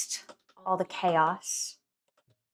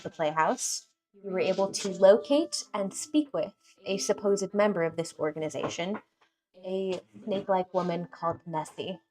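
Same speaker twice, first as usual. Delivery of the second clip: steady storytelling recap; game master recap. Acted. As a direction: set the scene for the players. GM recap narration.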